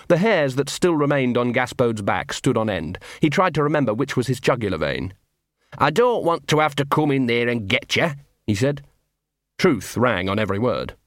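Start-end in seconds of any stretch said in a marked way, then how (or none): 5.8-8.1 lightly voiced scruffy street dog, chummy; a small mongrel wheedling a friend; Gaspode the dog. Scruffy dog to hidden wolf, lightly voiced.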